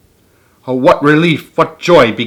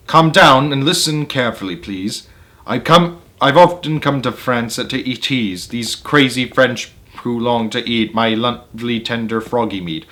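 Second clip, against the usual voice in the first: a touch softer, unhurried and easy; cool and calm; 4 dB quieter than usual. Acted. Toad calmly reassures his panicked friend, a little softer. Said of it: "said as cool as cool could be".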